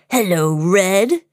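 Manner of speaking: lightly voiced scoundrel, drawn out; slow, teasing hello from a story villain; sly villain greeting. Big Bad Pete stops Minnie on the street, sly scoundrel.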